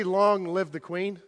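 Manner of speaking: slow, drawn-out example line through a laugh; slow demo prompt. Shown as a demonstration. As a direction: lay out the line slowly with a chuckle. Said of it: "can you say".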